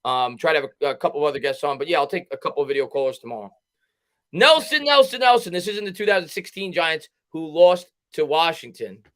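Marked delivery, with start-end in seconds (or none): 4.3-5.5 loud, high name call; excited call. Real, not acted. Calling out a viewer's name.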